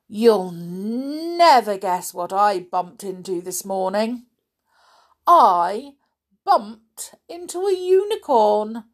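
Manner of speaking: proud announcement. Acted. Mister Bump announcing what he bumped into, proudly. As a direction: build proudly to the big news. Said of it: "he announced proudly".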